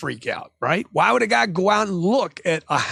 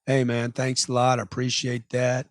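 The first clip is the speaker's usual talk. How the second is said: low-key, level polite thanks; lower, understated calm courtesy; rational customer; 4 semitones lower than usual. Acted. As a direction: play a composed buyer bowing out. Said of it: "The guy that stays rational".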